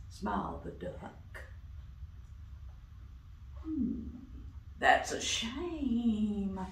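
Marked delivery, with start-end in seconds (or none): 3.6-6.6 slow, sleepy snake; yawning snake. Acted. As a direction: yawn the words out slowly. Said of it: "yawned the snake".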